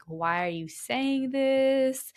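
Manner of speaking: acted puzzlement, drawn out; confused questioning. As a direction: draw it out as a baffled question. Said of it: "the victim was confused".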